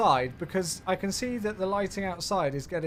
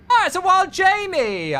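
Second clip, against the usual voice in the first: much higher, louder delighted call; excited greeting; 12 semitones higher, 11 dB louder than usual. Real, not acted. Streamer spotting a viewer in chat, a loud high excited hello. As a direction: greet a friend who just showed up.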